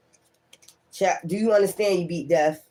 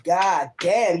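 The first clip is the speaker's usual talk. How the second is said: drawn-out exclaim. Real, not acted. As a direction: call it out slowly in amazement. Marvelling at the deed.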